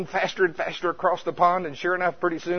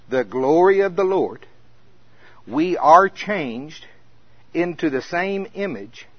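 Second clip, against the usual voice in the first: scripture reading. Acted. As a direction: lean into the words glory and changed. Reads scripture aloud.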